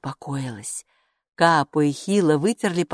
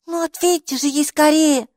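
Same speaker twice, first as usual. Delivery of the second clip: high, loud insistent character voice; demanding; 10 semitones higher, 5 dB louder than usual. A narrator's reading. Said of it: "потребовала Майки".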